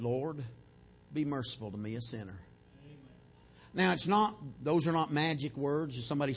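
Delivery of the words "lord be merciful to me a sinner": quiet, low plea for mercy; humbled sinner. Acted. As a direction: pray softly, too ashamed to look up. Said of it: "he's so humiliated".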